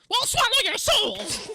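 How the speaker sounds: high, loud shrieking demon. Pretend. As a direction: screech it like a soul-eating demon. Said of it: "give us something in the demon voice".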